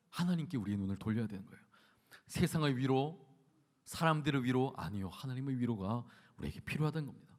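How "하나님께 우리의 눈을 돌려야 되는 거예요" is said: ordinary talk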